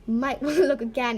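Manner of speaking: amused, half-suppressed chuckle in the words; holding in laughter. Acted. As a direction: tease while stifling a laugh. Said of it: "he said, holding in a laugh".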